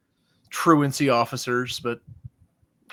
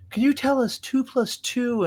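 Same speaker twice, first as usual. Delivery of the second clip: higher-pitched mock teacher voice; mimicked teacher; 10 semitones higher than usual. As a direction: imitate a teacher quizzing the class. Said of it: "I get called the board".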